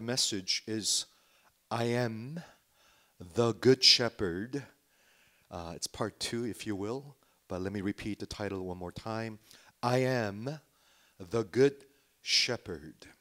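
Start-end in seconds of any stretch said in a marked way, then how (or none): 1.7-4.7 "I Am", then "the Good Shepherd" slow and firm; emphatic title. Real, not acted. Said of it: "And I'm emphasizing". 9.8-13.1 "I Am", pause, then slow "the Good Shepherd"; emphatic title. Real, not acted. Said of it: "And I'm emphasizing".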